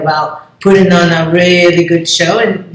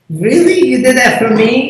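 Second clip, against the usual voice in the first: overwhelmed surprise; 5 semitones higher than usual. Retold or imitated. Touched by fans' support.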